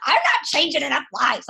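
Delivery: high, crying shout breaking into tears; tearful crying rant. Retold or imitated. Retelling crying to her husband over a paycheck, tearful shout. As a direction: wail it out in frustrated tears. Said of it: "And I was like".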